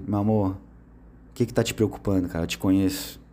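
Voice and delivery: lightly voiced loving reassurance; tender partner. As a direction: gently ask your worried partner what's wrong. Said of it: "vai dizer".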